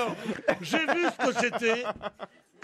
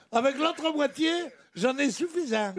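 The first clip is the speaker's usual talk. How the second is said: mock southern accent; 4 semitones higher than usual. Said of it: "tu sais comment il dit".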